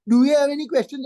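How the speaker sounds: hurried, perfunctory check; rushed token question. Shown as a demonstration. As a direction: ask it briskly without leaving room to answer. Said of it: "and you go on talking".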